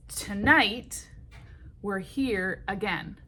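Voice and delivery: "Tonight" with a light first syllable and a strong NIGHT; slow, measured demo, punching the NIGHT of "Tonight"; natural stress on toNIGHT. Shown as a demonstration. Songwriting teacher shows natural meter, toNIGHT stressed on the second syllable.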